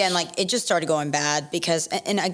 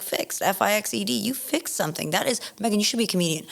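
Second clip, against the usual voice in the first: mocking sarcasm; 4 semitones higher than usual. Spelling it out mockingly.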